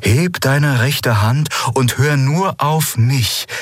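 hypnotic, stretched-out instruction; commanding. A narrator's reading. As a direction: guide her with slow, insistent commands. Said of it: "befahl der Shayang".

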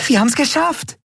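very high, elated cry; joyful. A narrator's reading. Nelen celebrating the escape, elated. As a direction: burst with joy. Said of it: "vor Freude".

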